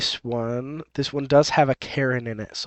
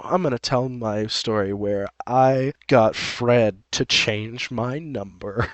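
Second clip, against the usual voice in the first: slow, drawn-out story announcement; mock storytelling; 3 semitones lower, slower than usual. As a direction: stretch it out like announcing your big tale. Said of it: "Doesn't sound as exciting when you put it like that".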